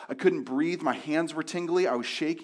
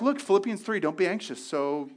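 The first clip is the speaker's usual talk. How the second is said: a hint of a smug church voice; imitating someone tossing a Bible verse at anxiety; glib verse-quoter; 3 semitones higher than usual. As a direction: quote scripture smugly.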